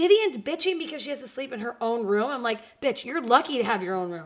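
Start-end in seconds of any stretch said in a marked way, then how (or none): none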